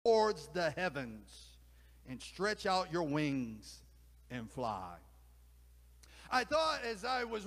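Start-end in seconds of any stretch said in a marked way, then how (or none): 0.0-5.0 exasperated, then sink into a hushed send-off; exasperated owl. Acted. Owl urges the eagle to look up, exasperated and loud. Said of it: "The owl clucked in exasperation".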